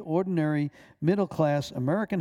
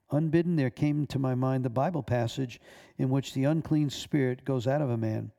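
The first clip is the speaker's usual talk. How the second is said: plain reading voice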